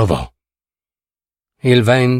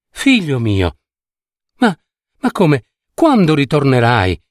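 afflicted. Acted.

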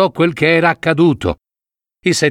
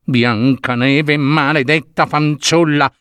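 queen's rage; slower than usual. Acted. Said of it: "la regina tremò tutta di rabbia".

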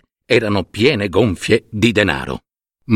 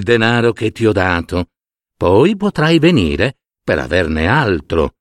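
advising python; 4 semitones lower than usual. Acted. Python advises the man against his wife, low measured voice. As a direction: counsel him low and steady.

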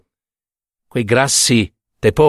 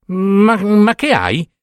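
put-on higher, lively girlish bride talking to her groom; young bride's voice; 7 semitones higher, slower than usual. A narrator's reading. Young bride Ida alarmed at her groom's hot hands. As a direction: play the naive bride, bright and startled.

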